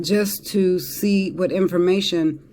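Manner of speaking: talking through hiccups; words broken by a hiccup. Real, not acted. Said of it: "sorry, I got the hiccups".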